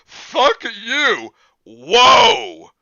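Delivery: high, loud yelp; shouting. Real, not acted. Friends reading together, sudden loud outburst. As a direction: blurt it out startled.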